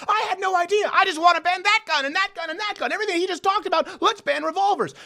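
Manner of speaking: high-pitched mocking imitation; hammed-up, high voice of an overeager opponent; mock gun banner. Host imitating the other side wanting bans, mocking. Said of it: "people on the other side are going".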